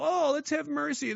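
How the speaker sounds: high, slow mock kindness. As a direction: parody the naive do-gooder. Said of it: "when you go".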